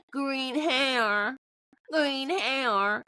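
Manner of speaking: jeering laugh, then a drawn-out taunt; mocking laughter. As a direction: imitate a man laughing and taunting. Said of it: "starts laughing and just going".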